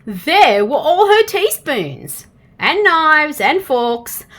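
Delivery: slow, laughing through the words; laughing reveal. A narrator's reading. Narrator revealing the hidden teaspoons, slow and laughing.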